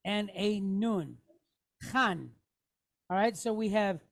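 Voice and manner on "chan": "Chan" with CH from the back of the throat; throaty CH. Shown as a demonstration. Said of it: "C H like in the back of the throat".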